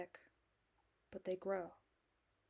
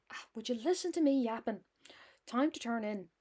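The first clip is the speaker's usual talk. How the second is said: put-on hammy Irish accent. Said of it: "I know this accent is hammy as hell".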